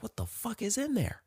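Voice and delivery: high, hushed, breathless whisper; shocked whisper. Retold or imitated. After hearing the crash in her purse, whispering in shock. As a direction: whisper it, startled by the noise. Hears a loud pop from purse.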